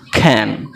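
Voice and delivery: খ্যান with an airy kh, dropping low; low, falling খ্যান with aspirated first sound. Shown as a demonstration. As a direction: give খ্যান a clear puff of breath at the start. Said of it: "ক্যানের উচ্চারণটা কী বললাম?".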